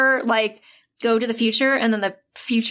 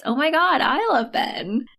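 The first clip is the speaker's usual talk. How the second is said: sudden gushing gasp, then slow; mock realization; 3 semitones higher than usual. Heroine realizing she loves Ben, gushing. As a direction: play the sudden revelation big. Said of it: "this makes her realize".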